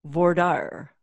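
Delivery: French term in a Michigan accent. Real, not acted. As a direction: say voir dire the Michigan way. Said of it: "you're doing it with a Michigan accent".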